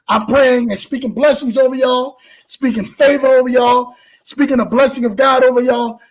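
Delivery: steady spoken blessing over the audience; prayer blessing. Real, not acted. Host closing the show with a spoken blessing, steady and earnest. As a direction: pray it out like a pastor.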